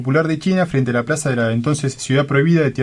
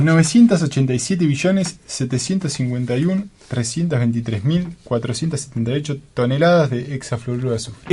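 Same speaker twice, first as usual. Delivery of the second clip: deep gas voice. Pretend. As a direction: voice after inhaling gas. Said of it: "Para que tomo aire, así no me ahogo".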